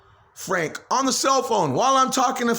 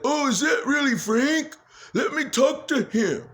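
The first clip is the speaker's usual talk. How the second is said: raised, lightly put-on voice of Danny coming through; voice through my throat; 7 semitones higher than usual. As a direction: let another voice speak through your throat. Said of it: "Through my throat".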